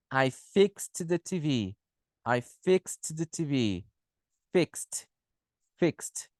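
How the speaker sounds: "fixed" said "fikst", carefully articulated; X plus T ending. Shown as a demonstration. Teacher drilling the X rule, "fixed" ending in T. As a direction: sound every consonant in "fixed", ending on T. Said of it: "O X".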